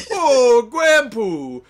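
loud, high nonsense babble; gibberish. Pretend. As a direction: babble nonsense words, squealing. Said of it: "just say fucking gibberish".

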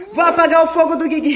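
put-on giggly playful chant to the toddler; playful laughing. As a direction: tease the kids while laughing. Playing firefighter with toddler.

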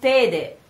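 "tede" with a closed first E, as in "they"; mistaken vowel. Shown as a demonstration. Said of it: "the worst mistake you can do".

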